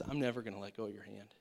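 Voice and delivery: low, soft, reassuring promise; lightly voiced gentle father, quick and steady; heavenly Father. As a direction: reassure a child, low and easy. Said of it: "a heavenly Father who says".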